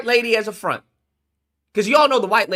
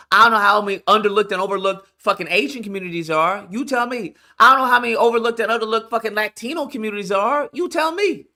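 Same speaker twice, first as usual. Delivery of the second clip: 1 rising exasperation; 2 semitones higher than usual. Real, not acted. Escalating rant at viewers.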